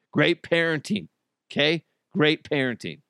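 mock praise with heavy sarcasm; dry, sarcastic approval. Real, not acted. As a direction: praise them and mean the opposite. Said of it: "I'm obviously being sarcastic".

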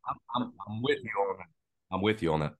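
coughing fit. Real, not acted. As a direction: voice strained from coughing. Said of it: "I'm coughing a lot".

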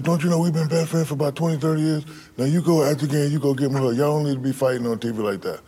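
mama telling him off; scolding mother. Retold or imitated.

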